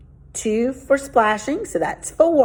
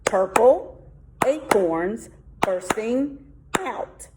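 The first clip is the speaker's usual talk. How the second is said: "Purple acorns bursting out" drawn out slowly, syllable by syllable; slow count; much slower than usual. Shown as a demonstration. Teacher counting seven syllables aloud, slowly. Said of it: "There's my seven".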